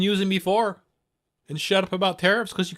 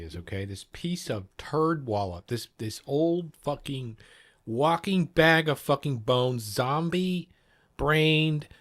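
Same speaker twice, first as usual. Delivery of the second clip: angry rant; 2 semitones lower than usual. Real, not acted. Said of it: "Here's why I'm angry".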